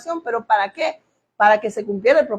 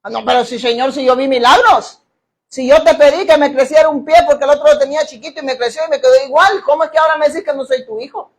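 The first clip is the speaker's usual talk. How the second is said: protesting believer; 4 dB louder than usual. Retold or imitated.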